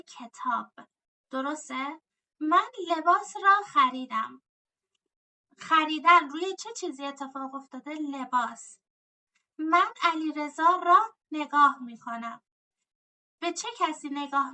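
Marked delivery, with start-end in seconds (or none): 2.4-4.4 را lifted and held; teacher marks the object ending را; stress on را. Shown as a demonstration. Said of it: "teacher stresses را in example". 9.6-12.4 را said louder and held; teacher marks the object ending را; stress on را. Shown as a demonstration. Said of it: "teacher stresses را in example".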